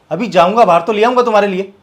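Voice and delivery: husband loses patience and shouts back at wife. Acted. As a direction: raise your voice, fed up with her. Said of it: "तुम इतनी सी बात पर चिल्ला क्यों रही हो?".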